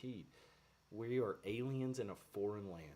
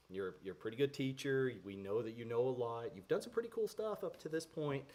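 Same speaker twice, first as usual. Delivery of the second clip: butter up the teacher, half-teasing; mock flattery; 3 semitones higher, 4 dB louder than usual.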